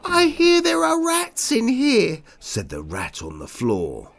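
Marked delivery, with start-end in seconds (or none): 0.1-2.2 high squeaky rat voice, pushed loud; squeaky roar. Acted. Rat on the floor announces rats in a squeaky roar. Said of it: "came a squeaky-like roar".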